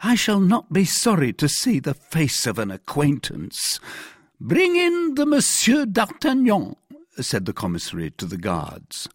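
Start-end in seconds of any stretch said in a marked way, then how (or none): 0.0-3.8 higher-pitched, earnest reply; eager cry. A narrator's reading. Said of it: "cried Bonacieux". 4.4-6.8 very high, loud, drawn-out order; commanding call. Acted. Commissary orders the guards.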